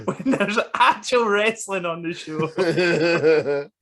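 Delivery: slow, laughing jab; laughing sarcasm. Real, not acted. Host mocking the show's lack of wrestling, slow and laughing. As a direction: drag it out through a laugh.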